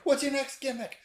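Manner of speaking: high, loud, laughing through the taunt; mock him while cracking up; laughing tease. Teasing a friend about his church gig, laughing.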